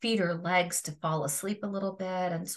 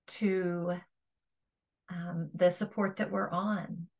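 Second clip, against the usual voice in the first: calm meditation guide with long pauses; guided meditation. Acted. Yoga teacher guiding listeners to feel their resting body, guided meditation. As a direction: guide them through a body scan, leaving space between phrases.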